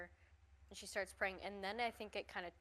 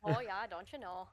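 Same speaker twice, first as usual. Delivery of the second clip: put-on Midwest accent; 6 dB louder than usual. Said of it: "That's how we do it here in Michigan there".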